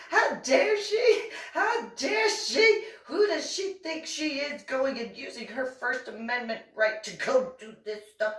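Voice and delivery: mocking Anna. Anna raging about the First Amendment, high mock outrage. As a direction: drag out the outrage in a piercing parody. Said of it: "Because Anna, knowing her".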